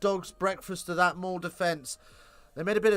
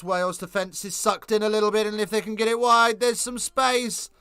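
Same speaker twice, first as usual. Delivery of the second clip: higher and louder, stretching the moment; building to a try; 6 semitones higher, 7 dB louder than usual. Real, not acted. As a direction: ride the break to the line. Ireland break for a try.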